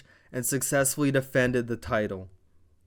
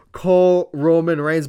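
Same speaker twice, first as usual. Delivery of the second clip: loud command; 4 semitones higher, 7 dB louder than usual. Retold or imitated.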